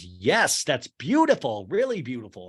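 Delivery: retold enthusiastic praise; mildly excited judge; pumped judge. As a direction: gush a little, stretching the middle. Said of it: "the guy's so pumped about Lisa".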